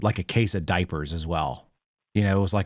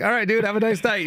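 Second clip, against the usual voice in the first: mock chirpy farewell; 13 semitones higher than usual. Retells his own farewell.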